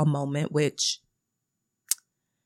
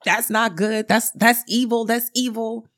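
higher-pitched, mock-indignant scolding; mad grandmother; 6 semitones higher than usual. Grandmother scolds daughter over monster bib, mock-angry and pitched up. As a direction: imitate a grandmother fussing in rapid repeats. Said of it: "she started getting mad at the daughter".

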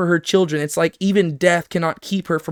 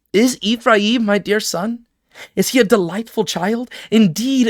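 scripture reading; 3 semitones higher than usual. Acted. Teacher reads God's yearning for his son, tender declaiming. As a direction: read it like a loving father.

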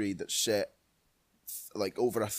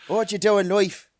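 loud, raised epic-hero declamation; film-quote impression; 8 semitones higher, 8 dB louder than usual. Podcaster quoting Gladiator to co-host, mock-heroic proclamation. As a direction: proclaim it as a hammed-up movie hero.

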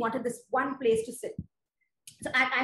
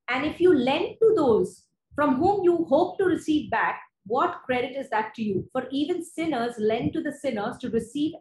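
measured, proclaiming Bible reading; scripture reading. Acted. Preacher reads Luke to the church, proclaiming. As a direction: read the verses out to the congregation.

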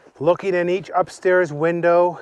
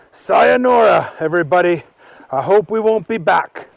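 a hint of a cheeky boy, a bit louder; cheeky farewell; 3 semitones higher, 4 dB louder than usual. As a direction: wave them off cheekily. Archie says goodbye.

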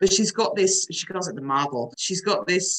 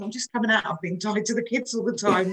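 rising, louder cry for freedom; a heartfelt mock outburst, higher and louder; longing to be free; 4 semitones higher, 4 dB louder than usual. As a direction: plead it like breaking loose. Wanting freedom after kids.

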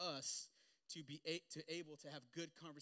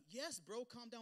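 wife's blunt reply; 8 semitones higher, 4 dB louder, slower than usual. Retold or imitated. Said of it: "She's like".

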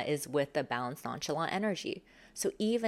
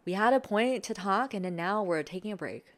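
nonchalant; 3 semitones higher than usual. Shown as a demonstration. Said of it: "coming back to that nonchalant".

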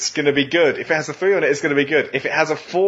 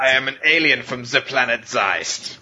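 put-on German accent. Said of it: "I don't know why he's German".

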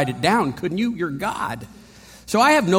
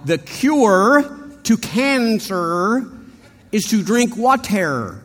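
slow, higher, crisp R's in "cancer" and "water"; Midwest anchorman; 3 semitones higher, 4 dB louder, much slower than usual. Retold or imitated. The Boston guy now careful, Midwest anchorman voice. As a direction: read it like a polished Midwest news anchor. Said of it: "now he's talking like a Midwest anchorman".

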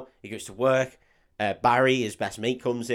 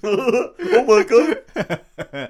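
put-on very slow, high, loud kid awe; laughing imitation of a gobsmacked child; hammed-up schoolkid astonishment; mock eleven-year-old; 11 semitones higher, 11 dB louder, much slower than usual. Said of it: "like, an eleven-year-old who's like".

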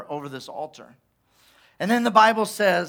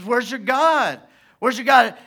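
lightly raised, jeering question; mocking taunt; 3 semitones higher than usual. Elijah to Baal's prophets, mild mocking taunt. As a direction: needle them with it. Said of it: "He starts mocking them".

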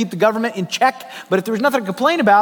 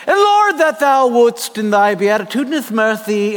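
hammed-up old-fashioned prayer; lightly pompous churchy thees and thous; mock King James English. Pastor retelling his road-rage prayer in mock King James prayer. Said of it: "speaking in the King James English".

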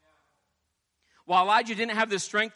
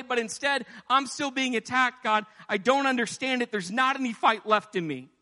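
higher pleading complaint to God; pleading Elijah; 6 semitones higher than usual. Retold or imitated. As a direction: beg God, worn out and frustrated. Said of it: "he was pleading before God".

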